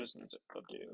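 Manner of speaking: glitchy robot voice from earbuds; robot voice, like a bad Bluetooth mic. Real, not acted. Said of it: "I do sound like a robot".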